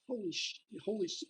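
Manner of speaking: high, hushed disbelief, cut short; retold soft, high-pitched shock; stunned realization. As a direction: say it under your breath, stunned. Stunned at finding his old Marine.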